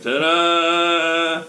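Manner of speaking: flustered, high, loud showman; overbright kids party host. Acted. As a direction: stumble in then sell the magic. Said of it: "is like".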